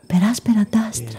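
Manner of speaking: hushed voiceless whisper. A narrator's reading. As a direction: breathe the words with no voice. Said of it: "να μου ψιθυρίζει".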